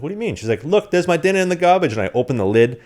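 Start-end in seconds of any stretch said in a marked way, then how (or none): 0.0-0.3 mock innocent. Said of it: "I was like". 0.6-1.9 high, loud mock Irish accent; shrill Irish brogue, pointing at the bin. Imitating his Irish roommate in a high mock Irish accent. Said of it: "you gotta work on your Irish accent".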